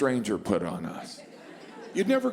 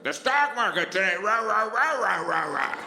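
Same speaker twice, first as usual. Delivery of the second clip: higher, mock newscaster gibberish; news anchor babble; 6 semitones higher than usual. Mocking how the news talks about the stock market, as a babbling anchor. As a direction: rattle it off like a TV anchor.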